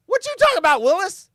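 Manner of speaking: put-on very high, loud, incredulous kid-style squawk; sitcom catchphrase impression. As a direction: squeal it like a TV catchphrase. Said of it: "Is that where Different Strokes got that quote?".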